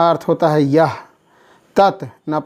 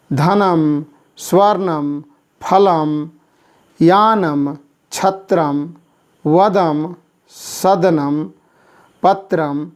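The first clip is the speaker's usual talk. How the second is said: slow careful pronunciation; slower than usual. Shown as a demonstration. Teacher to class, reading the word slowly. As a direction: draw the word out syllable by syllable. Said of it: "उच्चारण कुरुत".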